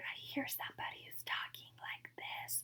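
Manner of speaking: soft, barely voiced whisper. Demonstrating what the word whispered sounds like, whispered. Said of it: "But then when I hear whispered".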